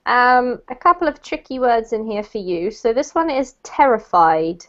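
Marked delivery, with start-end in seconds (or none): 3.6-4.6 terrified, stress on TER; TERrified, first syllable strong. Shown as a demonstration. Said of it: "the emphasis is actually on this syllable here".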